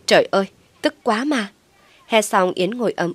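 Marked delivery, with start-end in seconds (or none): 0.1-1.5 loud, higher cry of rage; frustrated yell. Acted. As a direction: scream out her fury after slamming the door. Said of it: "cô hét lên".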